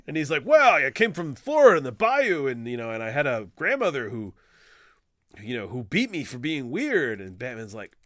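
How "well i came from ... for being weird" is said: whinging grandmother. Retold or imitated. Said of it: "Killer Croc is like a whinging grandmother".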